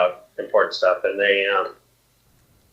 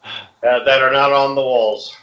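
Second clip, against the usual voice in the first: high, loud commander's call; barking orders; 3 semitones higher, 3 dB louder than usual. Acted. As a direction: bark the order at the sergeant. General barking orders at a sergeant.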